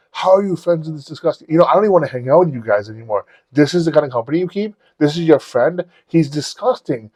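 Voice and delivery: mock-indignant rant, retold. Woman berating friends over the company they keep, indignant.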